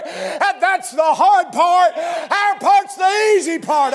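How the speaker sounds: rhythmic pulpit cadence, building in force; impassioned preaching. Real, not acted. Preacher telling congregation of the cross, building fervent preaching. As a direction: stretch the key phrases toward a shout.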